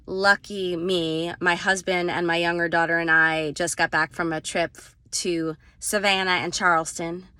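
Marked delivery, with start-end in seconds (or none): 5.8-7.3 put-on Southern accent. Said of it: "My Southern accent sucks".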